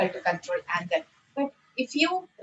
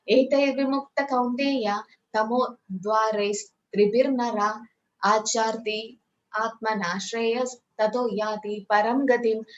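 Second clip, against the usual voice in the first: slow, measured chanting of a Sanskrit verse; a steady, reverent recitation of the verse. Acted. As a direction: recite it slowly like scripture.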